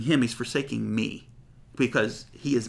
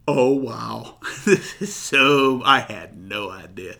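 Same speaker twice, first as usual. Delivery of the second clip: amazed wonder; 5 dB louder, slower than usual. Pretend. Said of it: "You're gonna go".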